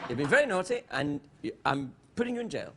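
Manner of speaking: lightly voiced English detective; Foyle impression. Host as detective jailing the Cockney, understated impression. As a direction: mildly scold like a restrained detective. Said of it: "he talks like this".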